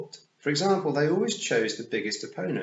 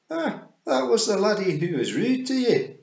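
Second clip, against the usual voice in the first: high, loud Scots pictsie; Rob Anybody; 12 semitones higher, 8 dB louder than usual. A narrator's reading. Rob identifying Roland to Tiffany, high Scots voice. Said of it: "said Rob".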